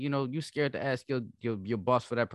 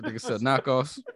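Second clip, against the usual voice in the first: laughing; 4 semitones higher, 4 dB louder, slower than usual. Real, not acted. Friend laughs at joke.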